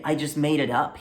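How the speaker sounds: mild imitation of a timid joker; unconfident mumble. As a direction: say it like you don't stand behind it. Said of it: "very unconfident".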